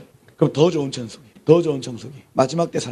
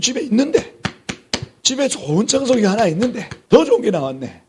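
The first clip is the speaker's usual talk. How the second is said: tempted shopper; 5 semitones higher than usual. Acted. Acting out shopper coveting newer gadget.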